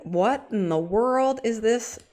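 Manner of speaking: slow, baffled mock voice; a hint of a bewildered onlooker; mock puzzled bystander. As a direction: voice the onlooker's confusion, slowed. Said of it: "Galvatron's gonna think I'm a total idiot".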